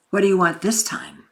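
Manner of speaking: hushed, wary whisper; suspicious whisper. Shown as a demonstration. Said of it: "More like that".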